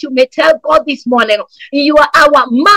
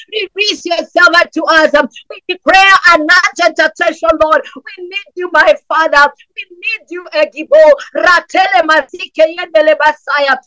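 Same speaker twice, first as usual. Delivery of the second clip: impassioned preaching prayer, pitched up and pleading; fervent prayer; 3 semitones higher than usual. Real, not acted. Pastor pleading with God for his congregation, fervent preaching prayer. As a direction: cry out to God for urgent help.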